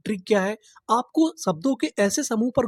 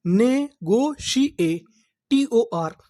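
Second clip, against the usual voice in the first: slow blend; much slower than usual. Shown as a demonstration. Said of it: "तो हमारी meaning क्या बनी?".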